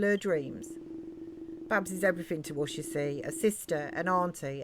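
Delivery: lightly voiced game villager telling their troubles; earnest British villager character. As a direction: lightly act a loyal, worried local. Reads game character's dialogue.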